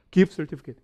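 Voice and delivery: "기프트 서티피케이트" linked as "gif-sertifiket"; final Ts dropped. Shown as a demonstration. Teacher quizzing the class, linked English-style "기프트 서티피케이트". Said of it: "끝자음 T는 거의 발음을 안 해요".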